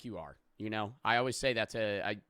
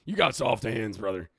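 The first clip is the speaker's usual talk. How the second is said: put-on country-boy accent, falling away at the end; 3 semitones lower, 5 dB louder than usual. Shown as a demonstration. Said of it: "that's how I talk".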